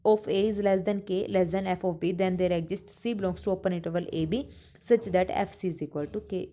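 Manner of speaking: slow, deliberate English definition read for note-taking; slow dictation. Acted. Teacher dictating a theorem to her class, slow and deliberate. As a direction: spell it out slowly so students can copy.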